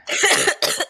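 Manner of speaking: sharp choking cough; coughing up water. Real, not acted. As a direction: cough it out hard. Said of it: "Choking on water".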